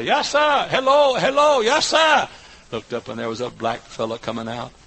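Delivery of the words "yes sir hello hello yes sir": much higher, lightly voiced old deacon; old man's voice. Old deacon answering the preacher's call, lightly voiced old man. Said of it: "this old voice say".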